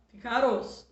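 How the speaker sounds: aroço with a light tapped R; mock wrong arroz; wrong soft R. Shown as a demonstration. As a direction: say aroço with a weak single tap. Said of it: "fica fraco".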